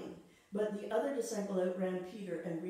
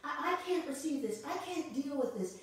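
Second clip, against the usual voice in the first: higher, pleading denial; a hint of someone stunned by bad news, pleading; disbelief at bad news; 4 semitones higher than usual. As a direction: refuse to accept the news. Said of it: "something happens to us".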